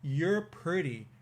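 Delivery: put-on very slow, deliberate little boy's verdict; a touch of a serious little boy; deadpan kid. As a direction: drag each word out like a solemn child. Voicing the little boy's reply.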